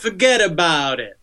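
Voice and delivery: put-on Brooklyn accent at normal volume. Co-host showing off for friends, in a Brooklyn accent. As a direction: do a classic Brooklyn wiseguy accent. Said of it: "Very good Brooklyn accent".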